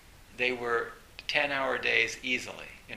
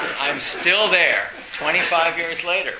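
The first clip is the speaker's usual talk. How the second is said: still laughing; 4 semitones higher, 10 dB louder than usual. Real, not acted. Laughing after one oh eight.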